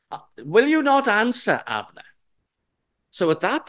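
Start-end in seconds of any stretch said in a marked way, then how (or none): 0.1-2.0 calling out. Acted. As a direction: shout it over to the far hill. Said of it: "And David shouted".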